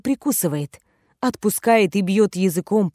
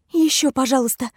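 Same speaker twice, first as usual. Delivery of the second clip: pleading; 5 semitones higher than usual. Acted. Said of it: "Мольба переплетается с частыми вздохами".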